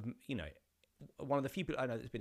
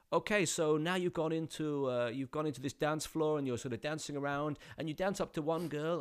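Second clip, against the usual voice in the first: a hint of a Dutch director giving instructions; Dutch accent; 4 semitones higher than usual. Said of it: "I think he was Dutch-ish".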